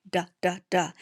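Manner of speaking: Duh, duh, duh as short clipped d sounds; letter sound d. Shown as a demonstration. Teacher shows the digging dog's sound, short d taps. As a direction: tap out the d sound three times. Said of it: "make his tongue go up".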